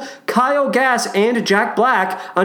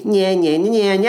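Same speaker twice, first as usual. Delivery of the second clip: put-on childish nya-nya teasing; sing-song taunting. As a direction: taunt like a bratty kid.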